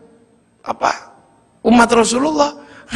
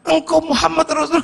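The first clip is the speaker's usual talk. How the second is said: astonished cry; 8 semitones higher than usual. Acted. Villager realizes he's facing the Prophet, astonished. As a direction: blurt it out in shock.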